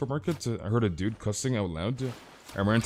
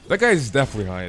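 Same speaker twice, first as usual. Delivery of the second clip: emphatic; 2 semitones higher, 6 dB louder, faster than usual. Real, not acted. First take, emphatic.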